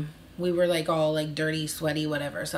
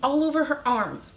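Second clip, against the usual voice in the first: mock manager voice; 4 semitones higher than usual. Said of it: "She's like".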